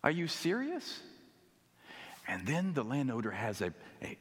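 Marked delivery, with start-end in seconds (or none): 0.0-1.0 higher, outraged complaint from tired workers; indignant grumbling. Retold or imitated. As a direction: protest the unfair pay, voice raised high. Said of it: "They grumbled at the landowner".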